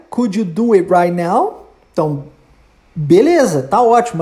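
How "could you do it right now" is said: slow question. Shown as a demonstration. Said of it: "a pergunta dele agora é".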